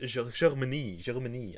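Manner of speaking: put-on botched German accent slipping into French; French-sounding German accent. Streamer fumbling a German accent, accidentally sounding French. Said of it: "That's, that's French".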